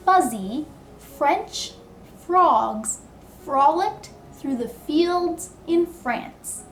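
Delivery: slow, each f on the lip; stressed f. Shown as a demonstration. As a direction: lean on every F sound. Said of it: "get those beaver teeth ready".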